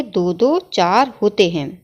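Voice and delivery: दो दो चार होते हैं said slowly and clearly; teacher dictating the right form slowly; slow, careful correct answer. Shown as a demonstration. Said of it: "शुद्ध कैसे लिखेंगे".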